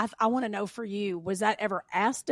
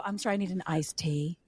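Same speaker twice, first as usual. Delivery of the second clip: careful, softened Southern accent, lower; consciously less Southern, enunciating "iced tea"; toned-down Southern accent; 3 semitones lower, 4 dB quieter than usual. Shown as a demonstration. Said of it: "speak with a little less of an accent".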